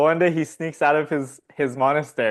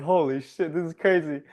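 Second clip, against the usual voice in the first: wide-eyed wonder; 5 semitones higher than usual. Retold or imitated. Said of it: "he's like".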